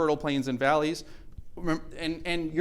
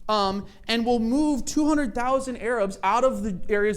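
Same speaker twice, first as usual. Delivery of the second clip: higher-pitched mock British official, unhurried; British officials offering a deal; 6 semitones higher than usual. Lecturer voicing British offering Arabs eighty percent, mock official tone. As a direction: play the generous colonial official handing over eighty percent. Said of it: "They said".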